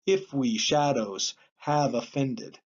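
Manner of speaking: slow verse reading, stress first in "IF we SHAdows"; trochaic stress. Shown as a demonstration. Teacher shows a trochee line, "IF we SHAdows" stressed. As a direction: read slowly, "IF we SHAdows HAVE ofFENded". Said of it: "beginning with the accented syllable".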